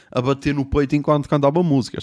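ordinary delivery

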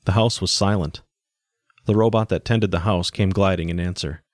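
measured, even audiobook reading; story narration. A narrator's reading. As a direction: narrate the story in evenly paced phrases. Reads the story aloud.

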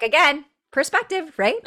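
high, light knowing quip; playful knowing tone. Retold or imitated. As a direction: tease him with a knowing lilt. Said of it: "I'm like".

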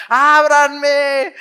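high, loud plea to open; locked-out man calling up loud; urgent call. Acted. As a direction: shout to be let in. Pedro knocking, soldiers coming.

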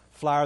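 "flyer" drawled as "flah-yer", same as fire and flower; Texas-accented flyer; Texan "flyer". Shown as a demonstration. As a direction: say it Texan, sounding just like fire. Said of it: "It's all the same word".

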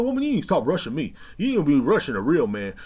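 high, loud mock complaint; loud bickering husband. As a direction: imitate a husband griping back loudly. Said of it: "He's loud".

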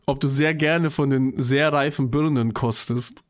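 slow, measured repeat of a question; deliberate repeat. Real, not acted. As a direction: repeat it slowly for someone who missed it. Wiederholt Frage nach „Bitte?. (langsam und deutlich wiederholt)

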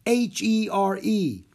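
slow, high, loud, every piece separate; exasperated shout. A narrator's reading. Theater manager spells out the bad news, shouting slowly. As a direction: spell it out loudly in despair. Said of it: "shouted Mister Dewey".

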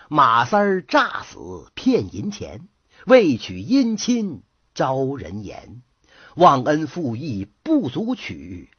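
slow, measured rhymed recitation; storyteller's verse. A narrator's reading. Narrator closing the tale with a moral verse, slowly recited. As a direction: recite it slowly, drawing out each line.

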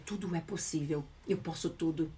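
gentle soft-spoken affirmation. Shown as a demonstration. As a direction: breathe it out softly like an inner certainty. Voicing how successful people talk.

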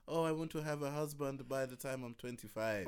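lightly put-on hybrid African accent; a hint of a hybrid African accent. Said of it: "a hybrid African accent".

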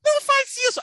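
high thin pleading voice. Retold or imitated. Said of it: "ela fala fininho".

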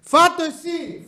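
high, slow, squeamish mock refusal; acting out refusing the worm snack, high and slow. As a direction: push it away in a high voice. His own refusal, acted out.

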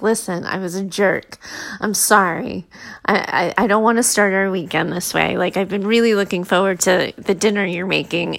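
low, subdued apology; lightly acted sincere apology; imitating husband's apology. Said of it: "he comes back and he's like".

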